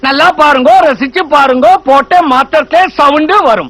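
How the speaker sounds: lightly voiced roadside showman's pitch; a touch of sing-out street-show spiel; street showman patter. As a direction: hawk it like a street performer, in a rhythmic list. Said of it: "நடு ரோட்ல வித்த காட்டுற மாதிரி கத்துறானே".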